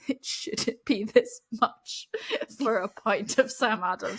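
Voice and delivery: slow, exaggerated complaint at the price; mock outrage. Recalling a pricey Celtics game pint, mock outraged. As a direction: ham up the price shock. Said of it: "and I was like".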